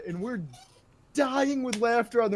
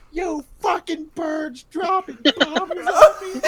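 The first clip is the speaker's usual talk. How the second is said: higher, louder and slow, through laughter; mock outraged kid; 8 semitones higher, 6 dB louder, slower than usual. Kid hit by a bottle yelling at the birds, mock voice. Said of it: "all we hear is".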